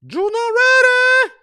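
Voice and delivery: high, loud, slow call; calling out to Junior in another room, high and loud. Real, not acted. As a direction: call across the house. Calling out to someone offstage.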